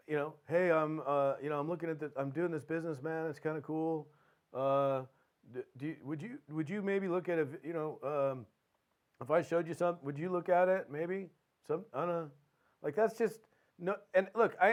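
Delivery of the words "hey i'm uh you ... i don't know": hesitant invite. Acted. Unconvincing salesman asking a prospect to look, hesitant. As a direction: stumble tentatively through the ask with ums and maybes. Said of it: "doesn't sound like it".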